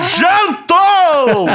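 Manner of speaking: loud, high victory yell; triumphant shout. Real, not acted. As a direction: yell it like he just won. Triumphant shout after a burn.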